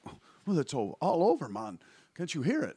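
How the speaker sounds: high, loud laid-back Jamaican voice; Jamaican local. Retold or imitated. Locals in Jamaica answer the comic, high Jamaican voice.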